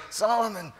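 high, slow, knowing voice ending in a chuckle; a dying father letting his son in on a secret, with a laugh; sly dying king. Retold or imitated. Dying David tells Solomon to finish Shimei, sly chuckle. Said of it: "on his deathbed he goes".

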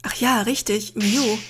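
whispered slowly, nursing a sore head; slow hurting whisper; pained whisper. Acted. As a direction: breathe it out, wincing at the headache. Hero wakes with a headache.

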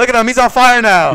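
high, loud delighted call; gleeful excitement. Real, not acted. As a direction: cheer as the goblin burns. Gleeful at goblins burning.

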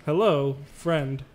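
stiff robot voice. Pretend. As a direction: beep boop like a toy robot. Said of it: "I am a robot".

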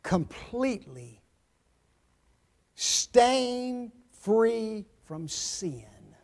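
"completely" set apart by pauses, slow and weighty; stress on completely. Shown as a demonstration. Preacher underlining "completely" for listeners, slow separated emphasis. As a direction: draw out "completely stain free from sin" word by word. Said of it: "I want you to underline that word".

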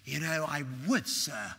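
low, polite mock-British reply; imitated British accent, dropping at the end; pronounced British accent. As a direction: answer courteously in a put-on British accent. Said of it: "he had this pronounced accent".

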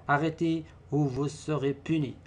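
stern warning to pupils; mild threat. Shown as a demonstration. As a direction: warn them of punishment. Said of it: "phrase impérative". (avertissement sévère)

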